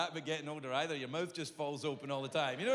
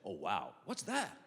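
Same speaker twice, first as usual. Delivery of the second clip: deep American doctor; 8 semitones lower, 3 dB quieter, slower than usual. Retold or imitated. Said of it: "he goes".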